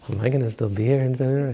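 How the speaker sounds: laughingly incredulous question; amused disbelief. Real, not acted. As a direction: chuckle at the very idea. Amused at far-ahead bookings.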